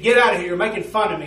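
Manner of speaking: loud, scornful yell; angry shout. Retold or imitated. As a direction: drive him off, shouting. Prisoner shouts at messenger.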